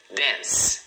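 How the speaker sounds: "dance" in a single beat; "dance" with no vowel after the final S; one syllable. Shown as a demonstration. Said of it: "Uma sílaba".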